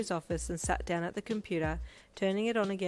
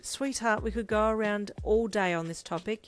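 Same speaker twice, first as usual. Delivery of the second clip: slightly exasperated; 3 semitones higher, 4 dB louder than usual. Acted. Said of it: "slightly exasperated".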